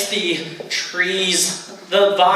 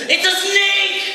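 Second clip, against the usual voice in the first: much higher, panicky warning; frightened cry; 10 semitones higher than usual. Acted. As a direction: blurt it out in fear. Nervous friend warns of snake.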